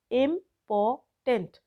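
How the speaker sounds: इम्पॉर्टेंट in three slow beats, इम, पॉर, टेंट; teacher sounding out इम्पॉर्टेंट piece by piece; syllable by syllable. Shown as a demonstration. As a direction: pause between each syllable of इम्पॉर्टेंट. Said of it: "कैसे बोलते हैं इम्पॉर्टेंट को".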